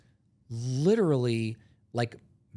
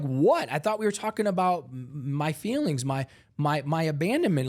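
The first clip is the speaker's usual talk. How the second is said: raised, stammering protest; starting to panic; 4 semitones higher than usual. Retold or imitated. Protesting to the man staring at him, panicky. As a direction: stumble defensively over the words. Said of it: "I'm starting to, like, panic".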